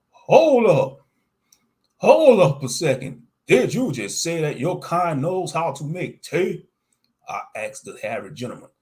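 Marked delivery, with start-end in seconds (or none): 0.1-6.7 high, loud startled voice; surprised. Acted. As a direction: stop them in disbelief. Narrator voicing startled self.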